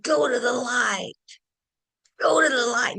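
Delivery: high, shouted urging toward the light; retold scream. Master at the deathbed shouting to the dying guru, a high urgent yell. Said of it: "is screaming, like, at the top of his lungs".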